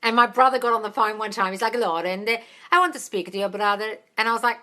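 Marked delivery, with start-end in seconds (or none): 1.8-4.0 imitated Italian-accented English. Fiancé asking to speak to her brother, Italian accent. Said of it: "talking to him in an Italian accent".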